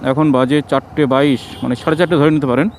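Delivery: muffled behind a mask; through a face mask. Real, not acted. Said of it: "কারণ মুখে mask পরা আছে".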